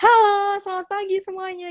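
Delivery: very high, friendly, casual, informal tone. Contrasting formal and informal greetings, higher pitch. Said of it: "tone-nya lebih tinggi".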